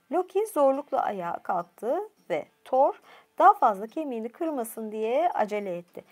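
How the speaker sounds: usual speaking voice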